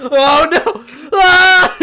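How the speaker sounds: loud high laughing shriek. Real, not acted. Shocked laughing outburst.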